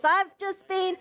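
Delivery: aggrieved list of good deeds; mildly indignant complaint to God; accusation. Acted. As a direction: protest as if unfairly treated. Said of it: "it's an accusation against the Lord".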